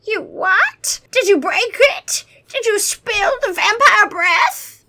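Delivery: high, loud vampire alarm, slow; old vampire shocked they spilled the breath; gasping shock. Acted. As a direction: gasp it out in horror. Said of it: "The old vampire gasped".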